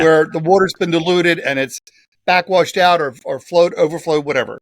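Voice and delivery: talking through a cough; throat catching between words; coughing fit. Real, not acted. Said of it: "Excuse me for the coughing".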